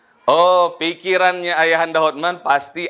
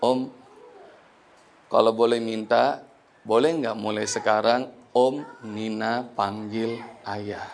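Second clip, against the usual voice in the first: whispered plea; 8 semitones lower, 6 dB quieter, slower than usual. Retold or imitated. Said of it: "Nina bisikin kepada Ayahanda Hotman".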